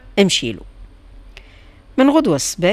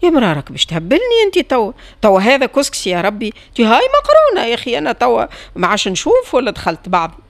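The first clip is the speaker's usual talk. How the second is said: louder, high frantic shouting; 6 semitones higher, 7 dB louder than usual. A narrator's reading. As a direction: yell at your wife, losing it. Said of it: "بدأ يصيح". (الزوج يصرخ على زوجته وهو يفقد صوابه)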